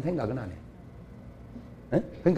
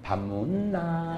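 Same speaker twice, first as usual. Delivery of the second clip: slow, much softer, with a chuckle; quiet mocking husband; 10 dB quieter, much slower than usual. Preacher mocking the terse husband, slow, soft and laughing. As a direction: let it die away, amused. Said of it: "마누라, 술집".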